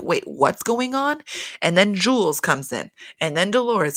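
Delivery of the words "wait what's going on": nosy eavesdroppers. Retold or imitated. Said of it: "were like".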